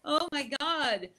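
high-pitched burst of glad relief that softens toward the end; joyful relief. Retold or imitated. Waking to find she didn't quit, overjoyed and relieved. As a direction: shout the yes, then let the delight settle. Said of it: "I woke up and I was like".

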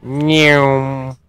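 a simple lazy meow; plain cat meow. Shown as a demonstration. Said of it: "Or more appropriately".

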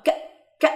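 "ك" as one short isolated k; k sound demonstrated. Shown as a demonstration. Teacher recapping how C K is pronounced, isolated k sound. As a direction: give a bare k burst for "ك". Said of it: "اللي بتتنطق".

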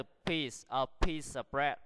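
"piece" ending in a voiceless S; S sound in piece. Shown as a demonstration. Teacher explains the CE ending, "piece" said with an S sound. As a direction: say "piece" with a clean hissed ending. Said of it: "phát âm nó thành âm s".

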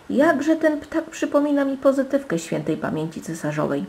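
put-on high-pitched old courtier's voice; old court marshal. A narrator's reading. Old marshal recalling the late empress, old courtier's voice. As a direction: reminisce on a high, sustained note.

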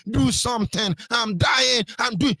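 high wailing mock cry of pain, slow on the first line; mock shouting white man. Preacher mocks a patient moaning over a scratch, wailing high. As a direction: ham up the dying patient's wailing. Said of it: "he's the one shouting".

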